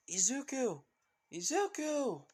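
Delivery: high, loud motherly shout; calling out. Acted. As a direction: call out high and loud for your son. Mother calling out for her son.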